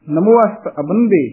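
ਨਮੋ ਅਸਤ ਅਬੰਦੇ run together, keeping the a of ast; quick joined pronunciation. Shown as a demonstration. Teacher shows reciters, quick joined ਨਮੋ ਅਸਤ. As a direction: glide straight from ਨਮੋ into ਅਸਤ. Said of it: "ਉਚਾਰਨ ਜਿੰਨੀ ਤੇਜ਼ੀ ਨਾਲ ਕਰਾਂਗੇ".

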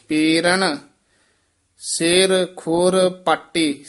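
ਪੇਰਣ, ਸਿਰ, ਖੁਰ, ਪਾਟੀ each set apart with pauses; words kept separate. Shown as a demonstration. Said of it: "ਸਾਰੇ ਪਦ ਵੱਖਰੇ".

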